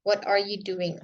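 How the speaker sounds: measured wh-question, settling down on "doing?"; falling question intonation. Shown as a demonstration. Teacher gives a what-question example, falling on "doing?". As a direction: bring the tune slightly down on "doing?". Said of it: "itu intonasinya agak turun".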